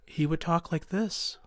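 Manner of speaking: lightly imitated robotic monotone; a slight impression of a monotone talker. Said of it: "he spoke in this robotic, monotone voice".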